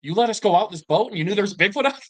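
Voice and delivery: high, fast, outraged retold complaint; indignant protest. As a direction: throw it back at him high and fast in disbelief. Kids protest to laughing grandpa.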